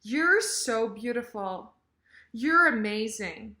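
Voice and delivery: "You're" said as yer, then a stressed compliment; casual reduced "You're". Shown as a demonstration. Teacher rehearses sentences with casual yer, reduced "You're". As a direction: shrink "You're" to yer before the praise. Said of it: "with this casual, fast yer".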